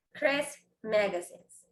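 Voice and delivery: "Chris Magazines" muy despacio y claro, sin sonido de apóstrofe; pronunciación lenta. Shown as a demonstration. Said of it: "sería como Chris Magazines". (modelo lento: "Chris Magazines")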